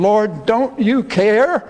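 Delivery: anguished plea. Retold or imitated. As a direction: plead for help in the middle of the storm. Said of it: "join together in this last question".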